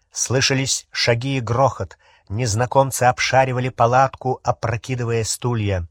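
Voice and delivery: plain reading voice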